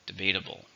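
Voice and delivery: "Debatable" with the stress on BAT; stress on second syllable. Shown as a demonstration. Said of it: "stresses on the second syllable".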